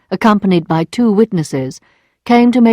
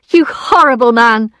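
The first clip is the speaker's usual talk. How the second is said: outraged; 4 semitones higher, 4 dB louder than usual. Acted. Emma insulted, lashing out.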